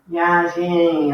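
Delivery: "viagem" with final em held long; drawn-out nasal ending. Shown as a demonstration. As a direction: stretch the last sound of "viagem". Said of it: "são as palavras de nem". ("viagem" alongando o em nasal do final)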